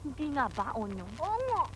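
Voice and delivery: hushed aside to a friend; under breath. Acted. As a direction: murmur it so Auntie can't hear. Whispered aside to Onyo.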